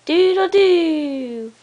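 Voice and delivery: slow, high rooster call; rooster crow. Retold or imitated. Parent imitates rooster for toddler.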